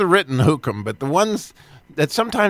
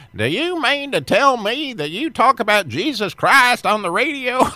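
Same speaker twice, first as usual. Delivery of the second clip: put-on very strong Texas accent, pitched up; 7 semitones higher than usual. Retelling a phone call with a business owner: imitating a strong Texas accent. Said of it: "speaking in a very strong Texas accent".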